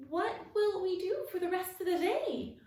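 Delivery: high, loud call after someone leaving. A narrator's reading. Abby calling after the departing frog, high and loud. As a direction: call after him as he goes. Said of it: "Abby called after him".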